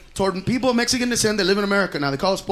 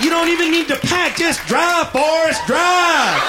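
yelled, higher urging to drive; mock urging shout; 5 semitones higher, slower than usual. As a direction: cheer him on like Forrest Gump. Yelling at redneck to flee.

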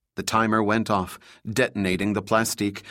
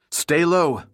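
higher, firm word of caution; 6 semitones higher, 4 dB louder than usual. A narrator's reading. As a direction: warn her to keep her head down. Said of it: "Linda cautioned".

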